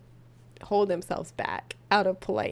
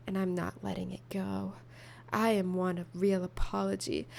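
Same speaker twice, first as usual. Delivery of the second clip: sultry voice; 3 semitones lower than usual. Acted. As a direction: whisper the story like a thriller. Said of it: "What is this sultry voice?".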